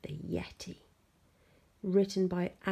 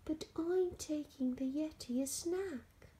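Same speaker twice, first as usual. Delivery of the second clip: put-on high, softened boy's voice; a touch downcast, pitched up; glum; 9 semitones higher than usual. A narrator's reading. George explains his errand to Nettie, mildly glum. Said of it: "feeling glum".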